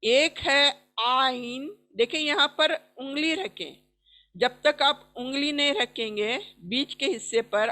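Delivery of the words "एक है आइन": slow आइन squeezed from mid throat; ain from mid throat. Shown as a demonstration. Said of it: "गर्दन के ... बीच का हिस्सा". (गले के बीच से आइन)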